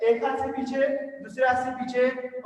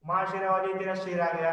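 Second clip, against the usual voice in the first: devotional call; 4 semitones lower than usual. Shown as a demonstration. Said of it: "काली माता के शेर जैसे".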